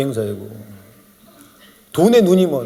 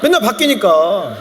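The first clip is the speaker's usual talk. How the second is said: usual speaking voice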